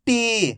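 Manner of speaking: "टी" with a long, held ee; drawn-out long vowel. Shown as a demonstration. Teacher modelling for learners to repeat, "टी" drawn out. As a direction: stretch the vowel in "टी". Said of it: "खींच खींच के पढ़ेंगे".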